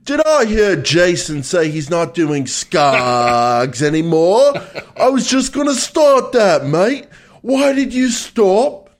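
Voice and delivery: hammed-up high Australian accent; exaggerated Australian, drawn-out vowels, voice swooping high. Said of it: "I can do the Australian accent".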